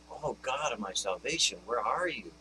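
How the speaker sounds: understated plea to an absent God; anguished cry like David. Retold or imitated. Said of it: "I've cried out like David".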